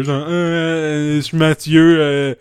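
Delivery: silly, halting imitation; Mathieu. Trading silly imitations with co-host, halting mock voice. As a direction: do a silly, filler-stretched mimicry. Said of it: "j'allais faire de quoi de niaiseux".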